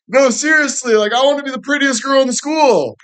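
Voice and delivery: put-on very high, whiny girly voice; vain teen girl. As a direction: ask it like a needy teenage girl.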